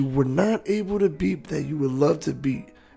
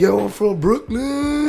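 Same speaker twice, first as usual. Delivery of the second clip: higher and louder, slow; excited; 8 semitones higher, 3 dB louder, slower than usual. Retold or imitated. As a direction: blurt it out, starstruck. Acting starstruck at a rapper.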